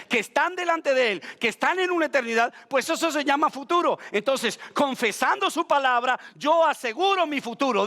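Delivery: emphatic, driving sermon delivery; fervent preaching. Real, not acted. Preacher urging the church to proclaim God's word, fervent.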